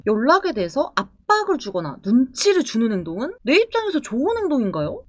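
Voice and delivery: usual speaking voice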